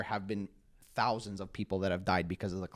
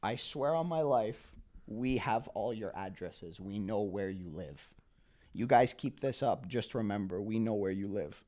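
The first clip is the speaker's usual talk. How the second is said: retold threat. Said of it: "they closed it with this".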